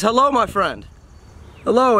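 a hint of a chipper old passerby; friendly old stranger. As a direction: greet a stranger cheerily, lightly in character. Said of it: "this old guy comes strolling by".

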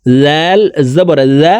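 জাল said thin and light; thin letter. Shown as a demonstration. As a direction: keep জাল light, not heavy like জ. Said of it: "জাল হরফ পাতলাভাবে উচ্চারণ করতে হবে".

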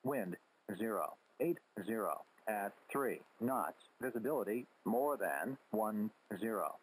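robotic readout through radio static; crackly military radio. Real, not acted. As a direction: read it like an automated radio broadcast. Automated weather broadcast over radio.

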